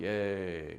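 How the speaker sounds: soft, gentle voice. Imitating a reserved person cheering at a ball game, in a soft tone. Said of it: "[In soft tone]".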